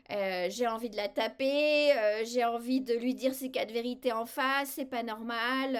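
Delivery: loud, heated outburst at a coworker; loud frustrated venting about Martine; angry venting. Shown as a demonstration. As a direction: let the anger out loud. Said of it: "vous dites tout ce que vous voulez".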